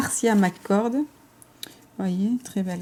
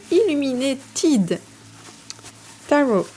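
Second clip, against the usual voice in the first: slow, higher French-accented English; bad English accent; 6 semitones higher, slower than usual. Real, not acted. Vlogger retrying an English deck name, slow French-accented English. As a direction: sound out Illuminated slowly with a thick French accent. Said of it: "j'ai vraiment un accent anglais de merde".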